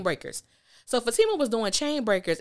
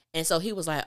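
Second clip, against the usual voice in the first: usual speaking voice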